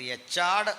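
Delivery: "എച്ചാഡ്" with a ch sound; wrong pronunciation. Shown as a demonstration. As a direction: say "എച്ചാഡ്" with ch, not a throaty h. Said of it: "തെറ്റാണ്".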